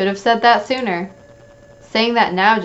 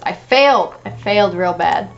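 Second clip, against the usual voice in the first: anguished outburst. Acted. Character despairs at failing.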